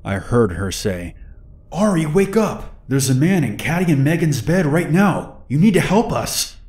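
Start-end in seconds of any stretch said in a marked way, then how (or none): 1.7-6.6 much higher, panicked pleading shout; frantic shouting. Retold or imitated. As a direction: urgently shake him awake with your voice. Frantic call to wake friend.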